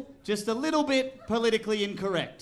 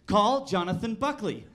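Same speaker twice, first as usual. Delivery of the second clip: lightly put-on stilted command; weird command voice. Driver showing off the voice system to a friend, in a careful odd voice. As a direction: enunciate carefully for a machine. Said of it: "I put this other weird voice on".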